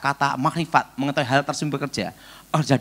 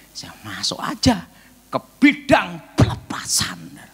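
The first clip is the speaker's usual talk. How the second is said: whispered aside; 2 semitones higher than usual. Real, not acted. Confides choice aside.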